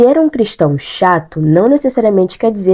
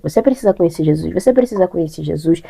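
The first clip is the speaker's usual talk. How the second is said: nagging whisper; 3 semitones lower, 4 dB quieter than usual. Retold or imitated. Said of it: "falando do ouvido da pessoa".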